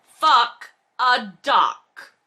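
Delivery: slow, drawn-out disbelief; exasperated. Real, not acted. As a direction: drag it out in exasperation. Exasperated reaction to passage.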